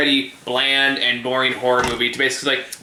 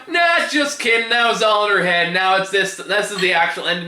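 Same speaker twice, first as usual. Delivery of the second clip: higher, mocking filmmaker voice; 7 semitones higher than usual. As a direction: sneer it like a smug filmmaker. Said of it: "And they go".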